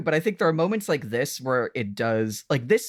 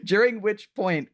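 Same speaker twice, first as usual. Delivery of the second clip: laughing through the words; 7 semitones higher than usual. Real, not acted. Laughing while retelling Catherine's toe trick. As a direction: giggle it out, amused.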